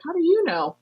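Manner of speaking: very high, astonished question; puzzled locals marvel at a stranger; amazed locals. Retold or imitated. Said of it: "they're looking at me like".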